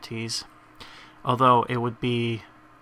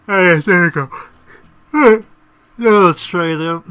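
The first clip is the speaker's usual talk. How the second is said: loud, higher-pitched burst of triumph; real excitement; 7 semitones higher, 13 dB louder than usual. Real, not acted. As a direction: cheer the small success loudly. Celebrates game item finally working.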